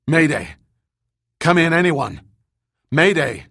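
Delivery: panicked distress call over crackling radio; tinny pocket radio. Acted. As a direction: shout for help through a tinny radio. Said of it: "A panicked voice was crackling over the radio".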